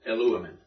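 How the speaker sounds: "Eluamen" stressed on the antepenult, lu; "Eluamen" accented on its third-from-last syllable; stress shifted back. Shown as a demonstration. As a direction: hit the "lu" in "Eluamen". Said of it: "So we would shift back".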